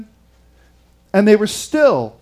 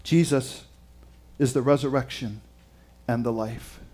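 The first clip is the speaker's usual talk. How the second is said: hushed reverence; 7 semitones lower, 9 dB quieter than usual. Acted. Preacher solemnly tells the congregation, hushed. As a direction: drop much softer and lower for a solemn statement. Solemn declaration after pause.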